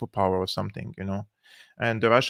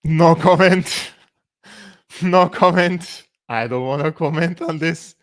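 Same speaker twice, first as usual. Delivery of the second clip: higher, louder, slow drawn-out refusal; mock no comment; 7 semitones higher, 7 dB louder than usual. Vlogger mocking the statement, drawn-out exaggerated refusal. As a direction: ham up a pompous no comment.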